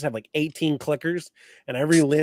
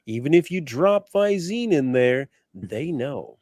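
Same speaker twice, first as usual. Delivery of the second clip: announcer voice; slower than usual. Acted. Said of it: "You gotta read this in the announcer voice".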